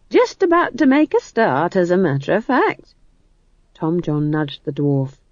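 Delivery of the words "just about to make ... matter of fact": cheery, high start that settles down; cheerful. A narrator's reading. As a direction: chirp it breezily. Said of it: "said Nanny cheerfully".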